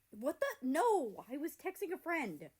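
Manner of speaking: high, loud embarrassed protest; flustered denial. Acted. America denies it to Canada, high and loud. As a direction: deny it fast and loud.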